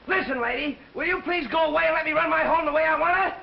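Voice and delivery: angry yelling. Acted. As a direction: plead angrily, voice rising as it goes. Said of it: "Stop your yelling!".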